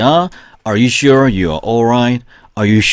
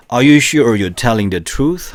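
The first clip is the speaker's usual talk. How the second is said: teacher reading a drill sentence slowly and clearly; slow model reading; 3 semitones higher, much slower than usual. Shown as a demonstration. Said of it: "같이 시작".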